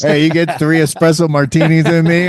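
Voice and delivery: lightly put-on New York accent; mock New York accent. Podcaster echoing a friend's line for the shirt, mock New York accent. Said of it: "you have a fucking crazy accent".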